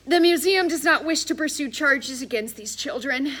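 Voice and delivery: high, loud formal declaration; museum director. A narrator's reading. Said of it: "finally finding his voice".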